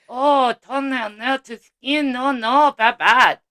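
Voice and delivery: put-on slow Chinese-accented nail tech; mock Chinese accent. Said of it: "she does a perfect Chinese person".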